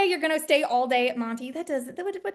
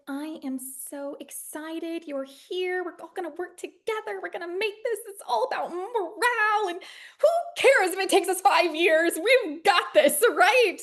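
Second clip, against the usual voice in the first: higher, upbeat team-spirit voice; mock cheerful indie morale; 5 semitones higher than usual. Indie producer rallying the team, mock cheerful. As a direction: play the relentlessly positive indie producer. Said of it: "love thy neighbor sort of aspect".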